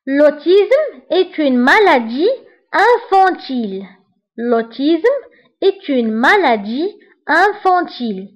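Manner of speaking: l'autisme est une maladie infantile said very slowly, word by word; slow example sentence. Shown as a demonstration. Teacher modeling an example sentence, very slow. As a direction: read the example slowly for the class.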